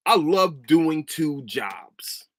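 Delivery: dry sarcastic reply, dragged out slowly. Retold or imitated. Answering a coworker's question, slow and sarcastic. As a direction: drawl it with mock cheer. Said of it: "simple sarcastic comment".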